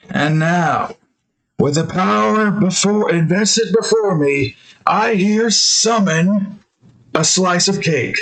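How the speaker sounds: slow, high, hammed-up ceremony; mock grand proclamation. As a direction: announce it like a wizard's spell. Grandly summoning cake on stream.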